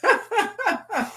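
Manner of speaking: high bright giggle after the patois line; high burst of laughter. Real, not acted. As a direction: laugh it off, amused.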